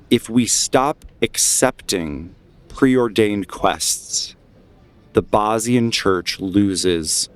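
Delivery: deliberate, emphatic orator with measured pauses; rally the crowd against the church; speech-making, key words drawn out; impassioned dissenter. Acted. GM voices agitator in the crowd.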